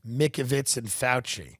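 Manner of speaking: ordinary delivery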